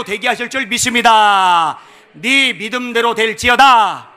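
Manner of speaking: forceful sermon delivery, stretched phrase endings; loud preaching exhortation. Acted. Preacher summing up the keys to victory, loud preaching. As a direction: build the exhortations to a shouted declaration.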